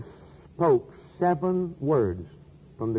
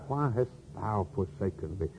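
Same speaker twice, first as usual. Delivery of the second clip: anguished cry; 6 semitones lower, 9 dB quieter than usual. Acted. Preacher repeats Christ's cry.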